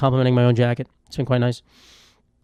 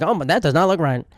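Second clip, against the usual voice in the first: stereotyped gay Southern flight attendant. Acted. Flight attendant appalled at an injured passenger, hammed-up Southern camp voice. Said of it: "my gay flight attendant is just a Southern black man".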